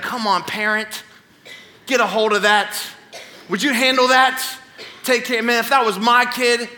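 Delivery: judgmental onlooker, pitch climbing as it goes; acted scoffing at a struggling parent; mock-exasperated heckle. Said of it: "all the parents I ever mocked".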